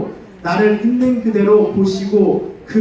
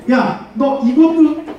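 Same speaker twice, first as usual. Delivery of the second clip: nagging parent; 4 semitones higher, slower than usual. Acted. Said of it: "어떤 부모님이 그래".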